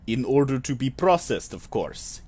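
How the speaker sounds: light fake Russian accent, dropping at the end; faux Russian accent. Clerk explaining the forms, light faux Russian accent. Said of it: "a, faux Russian accent".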